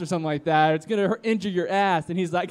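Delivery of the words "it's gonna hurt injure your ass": high-pitched mock warning; retold yell. Bystander warning the firework jumper, mild mock yell. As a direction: imitate someone calling out a warning. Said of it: "Someone yells".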